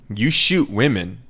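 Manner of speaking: "You shoot women" slow and deliberate; emphatic. Real, not acted. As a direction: weigh each word of "You shoot women". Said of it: "saying it for emphasis".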